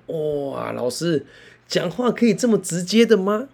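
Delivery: high, amazed "wow, teacher"; student's surprise. Retold or imitated. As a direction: act like a kid caught off guard.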